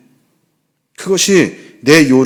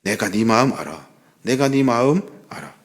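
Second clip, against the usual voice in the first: soft comfort; 3 semitones lower, 6 dB quieter than usual. Acted. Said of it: "보시고 위로해 주시기".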